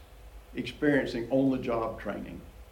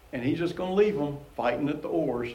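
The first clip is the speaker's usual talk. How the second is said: amused; faster than usual. Real, not acted. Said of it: "I just find that amusing".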